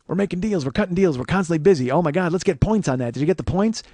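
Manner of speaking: hammed-up busy movie big shot; playing grown-up filmmaker. Mocking the crew's deal talk at lunch, self-important filmmaker act. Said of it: "they're all playing grown-up filmmaker".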